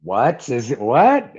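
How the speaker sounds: mock alarm, rising to a sharp second question; suspicious alarm. Dad hearing of his daughter's date, mock suspicious alarm. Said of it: "like that dog that senses something wrong".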